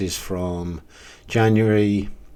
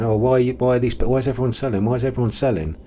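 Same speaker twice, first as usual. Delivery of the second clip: higher-pitched imitation of fretting people; mock complaining; 5 semitones higher, faster than usual. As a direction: mimic others' whining question, pitched up. Mimics people complaining in their videos.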